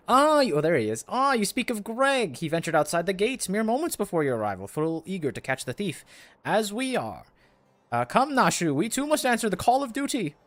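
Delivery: theatrical inspector, pitch leaping high; grandiose gentleman inspector. Acted. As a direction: declaim like a gallant, overeager detective. Voices quest's grandiose inspector.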